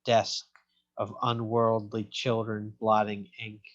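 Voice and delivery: measured poetry reading with pauses between phrases; poem reading. A narrator's reading. Poet reads a family story to an audience, measured recital. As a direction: read it as narrative verse, letting each line land.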